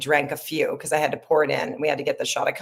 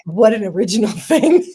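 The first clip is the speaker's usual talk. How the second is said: "What an original thing" said through laughter, louder; laughing mock praise; 6 semitones higher, 8 dB louder than usual. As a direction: laugh while mocking the line. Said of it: "We all laughed".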